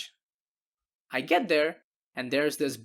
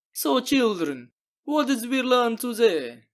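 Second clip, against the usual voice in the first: slow, higher, louder schoolteacher voice; mock teacher; 6 semitones higher, 3 dB louder than usual. Narrator wrapping up the story like a kindergarten teacher, slow and sing-song. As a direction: lecture a class of kids with exaggerated patience. Mock moral lesson ending.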